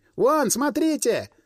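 shrill shout, pitched very high. Someone points out fiery arrows rising in the distant sky, shouting. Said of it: "раздался крик".

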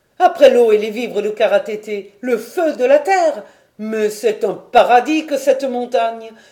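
loud, bright, joyful, cheerful cry. A narrator reads a character's exclamation to his companions, cheerful exclamation. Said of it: "S'écria Paganel d'un ton enjoué".

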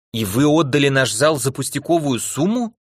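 plain reading voice

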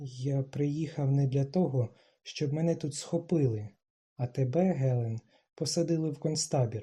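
ordinary delivery, nothing marked

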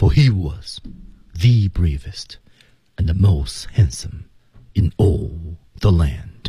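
brief quick pause after the word was. Discussing hang-time pauses, read the line with a short pause after was. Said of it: "所以这种停顿".

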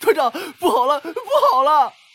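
very high, tear-choked, sobbing shout. A messenger who fell from the horse into mud reports to the commander, shouting with a sob. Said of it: "带着哭腔喊道".

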